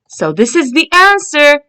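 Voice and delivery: normal talking voice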